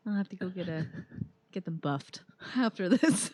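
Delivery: high-pitched fretting over nails; fussy mock dismay; mock fussing. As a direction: play a lightly hammed-up complaint, starting high and easing down. Acting out whining while climbing.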